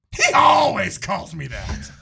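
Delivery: slow, meek punchline breaking into a laugh; deadpan shrug, giving in through a laugh. Acted. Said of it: "I like the act out".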